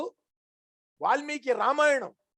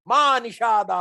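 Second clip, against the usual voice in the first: cry of grief; 4 dB louder, slower than usual. Acted. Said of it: "శోకము శ్లోకంగా మారిపోయింది".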